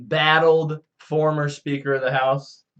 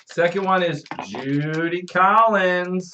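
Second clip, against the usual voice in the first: slow, drawn-out winner announcement; raffle announcer; 3 semitones higher, slower than usual. Pretend. Announcing the second raffle winner, drawn-out announcer call. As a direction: stretch the name like a game-show host.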